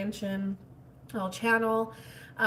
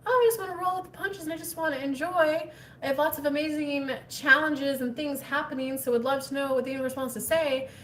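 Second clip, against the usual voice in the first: higher mock breezy voice; mock carefree; 4 semitones higher than usual. Parodying a viewer rolling with the punches, mock carefree. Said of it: "that's where, like".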